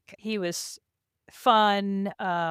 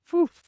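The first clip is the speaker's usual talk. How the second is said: quick, airy "poof" of falling off; imitated poof; 11 semitones higher, 8 dB louder than usual. Rider telling how they flew off, imitated poof. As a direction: puff out a sudden little poof. Imitating being thrown off the horse.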